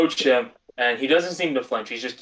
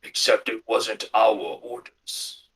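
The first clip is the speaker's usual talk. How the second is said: scoffing; 3 semitones lower, slower than usual. Acted. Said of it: "he sort of scoffs".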